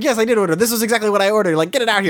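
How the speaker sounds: mock yell. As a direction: imitate an angry customer without real volume. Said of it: "he yells at the Aya owner".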